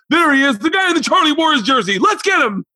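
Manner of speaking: high-pitched, urgent group holler; mob calling out. Retold or imitated. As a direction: call it out like an angry pack giving chase. Acts out group spotting him.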